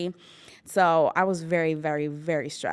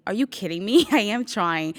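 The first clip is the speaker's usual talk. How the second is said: higher, louder, laughing in disbelief; a laughing are-you-kidding-me; exasperated laughing retort; 4 semitones higher, 5 dB louder than usual. Retold or imitated. To her manager, laughing in disbelief.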